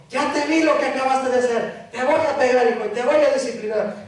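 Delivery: a hint of a stern dad warning his son; scolding father. Preacher playing a father warning his son, mock stern. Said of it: "le dicen a su hijo".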